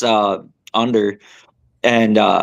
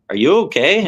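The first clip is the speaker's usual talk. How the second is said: concerned partner; 6 semitones higher than usual. Retold or imitated. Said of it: "he's like".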